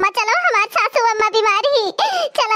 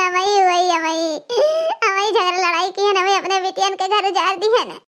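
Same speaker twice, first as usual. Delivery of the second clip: remorseful; 2 semitones lower than usual. Acted. Mother remorseful, breaking down.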